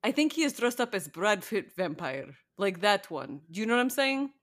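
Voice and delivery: a light, hammed-up Eastern European vampire accent; a podcaster playing a crappy Eastern European vampire, lightly. Co-host chatting about a vampire show, in a mock Eastern European vampire accent. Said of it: "funny Eastern European crappy vampire accent".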